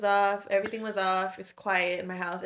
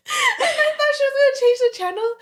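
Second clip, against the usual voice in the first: high, louder words breaking with laughter, a pitch much higher; laughing while telling; 8 dB louder than usual. Real, not acted. Telling friend the grandma story, laughing hard. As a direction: tell it through a fit of laughter.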